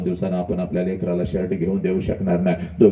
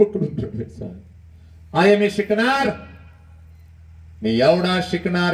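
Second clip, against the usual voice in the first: son's tearful vow; slower than usual. Acted. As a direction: swear it through tears. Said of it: "आईला म्हणतं".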